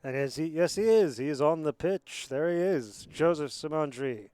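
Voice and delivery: excited rugby commentator spotting a player; live play-by-play. Real, not acted. Commentator announcing a player on the pitch, excited play-by-play. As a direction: call it live, rising on the discovery.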